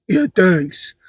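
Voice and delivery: dry thanks. Retold or imitated. Husband giving mom a dry unimpressed thanks. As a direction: mumble a dry yeah thanks. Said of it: "I get a dry".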